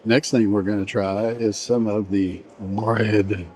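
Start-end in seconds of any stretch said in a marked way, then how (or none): 2.6-3.5 mock French accent, slow; playful fake French accent. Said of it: "I'm doing a French accent now".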